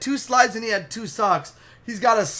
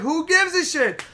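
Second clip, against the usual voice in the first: high-pitched angry retort; heated and dismissive, voice raised; pissed off; 9 semitones higher, 4 dB louder than usual. Retold or imitated. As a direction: imitate her furious comeback. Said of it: "she's fucking pissed".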